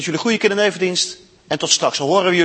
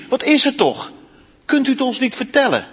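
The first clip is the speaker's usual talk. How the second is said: much higher worried pleading; worried plea; 7 semitones higher than usual. Acted. Lucy pleads with Aslan, anxious and high. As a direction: beg him to tell her. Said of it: "riep Lucy".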